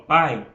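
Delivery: "pai" with a strong, held "a" and a light glide "i"; stressed a in pai. Shown as a demonstration. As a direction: let the "a" of "pai" carry the word. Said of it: "quando eu falo". ("pai" com o "a" forte e o "i" fraco)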